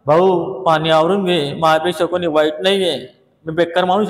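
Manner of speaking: slow mild request; slow polite take to neighbour; slow polite plea. Shown as a demonstration. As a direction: ask the neighbour kindly, slowly. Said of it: "तू असं म्हणू नका".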